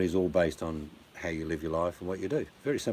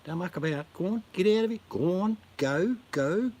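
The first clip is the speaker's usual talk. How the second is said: barked order; 10 semitones higher than usual. Acted. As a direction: bark orders to shoo them along. Urging viewers to go.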